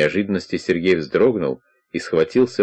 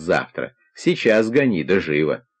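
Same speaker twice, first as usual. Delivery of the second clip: ordinary delivery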